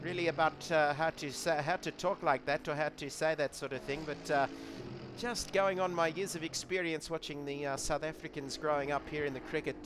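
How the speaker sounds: lightly imitated South African English accent; tentative mock South African accent; Afrikaans accent. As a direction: attempt an Afrikaans-accented English, pitched easy. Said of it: "Give us your best Afrikaans accent".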